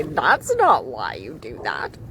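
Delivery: low, slow, flat-out blunt male friend. Retold or imitated. Friend bluntly telling her, slow low voice. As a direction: drop the pitch and say it slowly, matter-of-fact. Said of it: "be so blunt and say".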